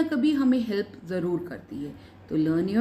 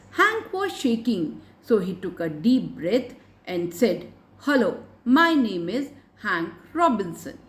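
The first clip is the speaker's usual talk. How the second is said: put-on very slow, measured reading for young learners; story read-aloud; much slower than usual. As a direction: read it out phrase by phrase, slowly. Reads story aloud to pupils. (बच्चों के लिए धीरे-धीरे कहानी पढ़ना)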